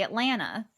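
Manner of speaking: "Atlanta," as at-LAN-uh, no T after the N; Southern "Atlanta," with the T's gone; dropped T's. Shown as a demonstration. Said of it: "there's no T's in Atlanta".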